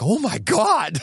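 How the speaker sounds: high-pitched, amused mock astonishment; amazed exclamation. Retelling meeting a couple with thick accents, amused astonishment. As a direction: exclaim it high, on the edge of laughing.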